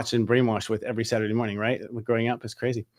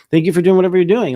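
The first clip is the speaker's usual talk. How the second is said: emphatic thanks; 5 semitones higher, 9 dB louder than usual. Real, not acted.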